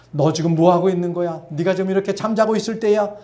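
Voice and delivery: imagined harsh reproach, lightly acted; mock sharp rebuke. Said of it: "날카롭게 책망하지 아니하시고". (날카롭게 책망하는 듯한 가벼운 흉내)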